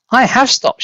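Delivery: put-on high, cackling old woman; high grandma voice. A narrator's reading. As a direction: pipe it up like a gleeful old woman. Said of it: "she answered".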